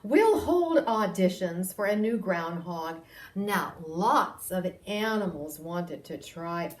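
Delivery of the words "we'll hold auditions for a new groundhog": a lightly voiced mayor, a bit louder; mayor's announcement. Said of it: "finally announced".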